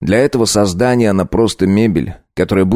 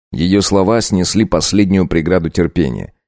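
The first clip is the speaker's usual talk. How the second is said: ordinary delivery, nothing marked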